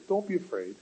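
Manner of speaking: gentle, kind reassurance; lightly voiced comfort to the frightened. Jesus comforting the terrified disciples, gentle and kind. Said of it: "I think in a very kind voice".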